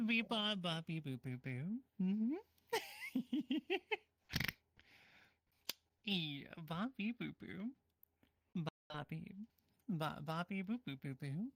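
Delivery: beep-boop robot chatter, slow and choppy; toy robot voice. Pretend. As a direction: babble like a little toy robot. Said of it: "to talk only in beep boops".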